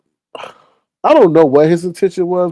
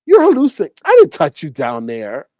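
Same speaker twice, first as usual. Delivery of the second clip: mock denial. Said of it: "what he would have done".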